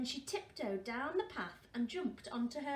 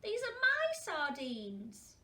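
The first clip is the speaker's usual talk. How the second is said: loud, higher, slow; guard the sardines firmly; possessive and slow; 6 semitones higher, 5 dB louder, slower than usual. Acted. Girl refusing the penguin her sardines, slow and possessive. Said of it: "said Tofter".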